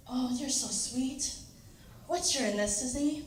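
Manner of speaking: lightly voiced senior lady, softly; a hint of a sweet elderly customer; sweet old lady. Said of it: "really sweet senior lady".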